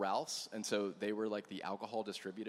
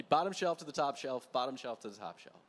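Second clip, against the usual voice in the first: "Bottom shelf to the top shelf" in a loud, hammed-up French accent, louder; mock French accent; 3 semitones higher, 6 dB louder than usual. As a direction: imitate the French winemaker's slogan in a louder voice, with an exaggerated French accent. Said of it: "he did it in a French accent".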